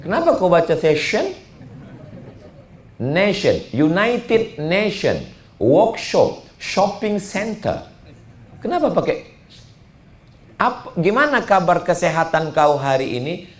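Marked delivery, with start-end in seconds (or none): 3.0-7.9 United Nation said as junaitid neshon, slow; English pronunciation. Shown as a demonstration. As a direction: show how tion becomes shon. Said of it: "Pronunciation kan".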